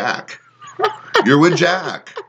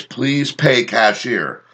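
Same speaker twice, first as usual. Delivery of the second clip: slow, lower mock machine voice; pump screen voice; 4 semitones lower, much slower than usual. Reading the pump's message aloud, slow mock machine voice. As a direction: drag it out like a robotic pump display. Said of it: "It says".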